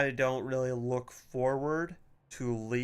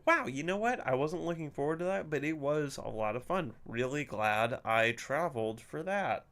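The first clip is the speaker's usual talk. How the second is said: mock enthusiasm; 3 semitones higher than usual. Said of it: "never get back from a vacation and go".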